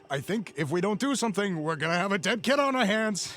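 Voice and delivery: lightly voiced nervous thug; worried henchman Lou. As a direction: fret to your partner. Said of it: "Lou to Vic".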